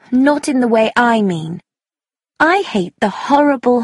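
high, emphatic objection; vehement young woman. Acted. Young woman telling Tommy she hates patriotism, vehement. Sheila voiced in argument.

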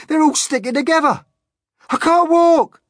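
loud, high furious complaint; angry screaming. Acted. Centipede stuck in purple paint, screaming with anger. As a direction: scream each complaint in outrage. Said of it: "The centipede screamed with anger".

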